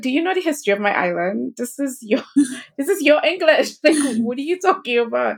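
indignant laughing retort. Retold or imitated. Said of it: "And I'm like".

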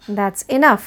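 gently, with love; loving and kind; tender. Shown as a demonstration. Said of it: "प्यार से कहेंगे".

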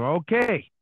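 self-mocking awkward stage voice; stiff, unconversational comic. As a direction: announce each step laboriously, stretching the words. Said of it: "I am the exact".

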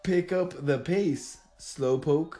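slow and deliberate, word by word. Shown as a demonstration. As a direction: spell it out slowly for a lip reader. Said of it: "Say it slower".

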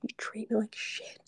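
half-hearted replay of screaming at him; mild retold scream. Retelling screaming back at her ex, mild hushed mock yell. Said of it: "but I screamed this at him".

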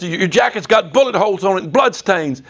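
a hint of a startled wife at the reunion; soldier's wife.

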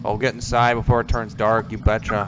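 put-on folksy Minnesota mom accent. Host hamming up a Minnesota accent for his cohost. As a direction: play a friendly Minnesota mom, "you betcha". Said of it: "speaking with a Minnesota accent".

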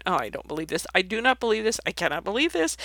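head-smacking disbelief, muttered to oneself; mock exasperation. Jesus reacting to his disciples, mock exasperated. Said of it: "one of those kind of head-smacking times".

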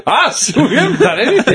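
high-pitched mock innocence; hammed-up protest through laughter; protesting friends. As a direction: squeal it like the wrongly accused. Playing accused friends at intervention.

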